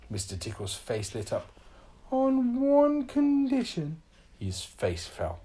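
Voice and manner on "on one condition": slow stern. Acted. Magic sets a condition.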